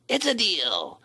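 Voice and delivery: high sly imp voice; giggly sneering imp. A narrator's reading. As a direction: seal the deal like a sly imp. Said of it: "said the imp".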